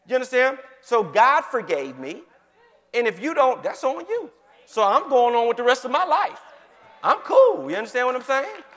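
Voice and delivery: high, loud, laughing climax; excited preaching. Real, not acted. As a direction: ride the high of the point.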